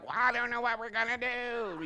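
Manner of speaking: lightly voiced helpless manager; a hint of a dithering boss; mild mock helpless shrug; impression of the manager. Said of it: "I'll just do my impression of him".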